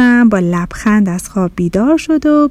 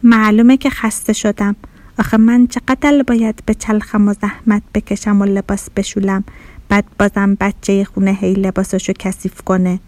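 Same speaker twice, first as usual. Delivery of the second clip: sluggish. Acted. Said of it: "با بیحالی جواب داد".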